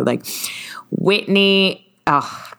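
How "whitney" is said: careful Southern try at "Whitney"; tentative Southern drawl; Southern accent. Acted. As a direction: shape "Whitney" with a put-on Southern twang. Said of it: "You have to shape your mouth real well".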